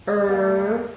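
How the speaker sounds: "er" said alone as a held r-colored vowel; er sound. Shown as a demonstration. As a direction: hold the "er" sound out clearly. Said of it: "making that er sound".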